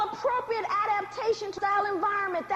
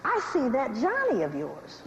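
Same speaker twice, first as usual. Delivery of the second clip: slave master; 6 semitones lower than usual. Acted. Slave master eyeing a slave mother's child, appraising. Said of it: "the slave master walks through".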